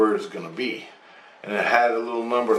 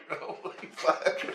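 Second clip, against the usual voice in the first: "Holy fuck" breathed slowly and unvoiced, no voice at all; awed whisper; 8 semitones higher, 10 dB quieter, much slower than usual. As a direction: let "Holy fuck" out as a slow, stunned whisper. Awed reaction, then repeated voiced.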